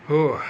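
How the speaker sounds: sharp exhale of relief; breathless whew. Real, not acted. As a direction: blow out a tired breath. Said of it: "take a deep breath".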